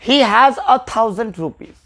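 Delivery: very slow, stress on a; slow answer. Shown as a demonstration. Teacher giving the filled-in answer to students, slow and clear. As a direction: lean on a and read it slowly. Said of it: "यहाँ पे तो आ होगा".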